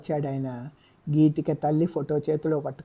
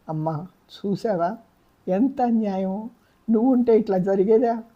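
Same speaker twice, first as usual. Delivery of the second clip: tearful plea to mother; 5 semitones higher than usual. A narrator's reading. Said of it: "వెక్కి వెక్కి ఏడ్చింది".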